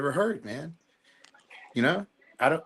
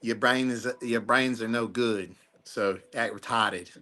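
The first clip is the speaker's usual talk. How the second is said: put-on Boston accent; 3 semitones lower, slower than usual. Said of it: "my Boston accent".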